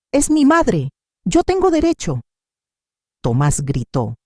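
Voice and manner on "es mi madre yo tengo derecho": desperate demand. A narrator's reading. Elena forcing her way in.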